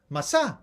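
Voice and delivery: MASA with a plain S, no T sound; old Sephardic pronunciation. Shown as a demonstration. Lecturer showing how Sephardim said it, old pronunciation. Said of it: "they used to say".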